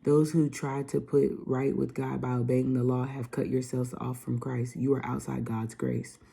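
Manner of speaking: loud, emphatic Bible reading; scripture reading. Acted. Vlogger reading Galatians to viewers, preaching loudly. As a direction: read it like a preacher at the pulpit. Reads Galatians five aloud.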